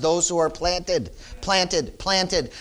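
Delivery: "planted" repeated on its own, each one separate; stress on planted. Real, not acted. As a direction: drive home "planted" by saying it slowly, then repeating it. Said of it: "I can't stress that word planted enough".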